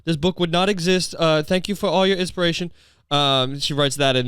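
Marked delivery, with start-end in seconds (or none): 0.1-2.7 lightly put-on German accent; a hint of German accent on a mock dedication. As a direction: read it like a mock German author. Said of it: "I don't know why she's German".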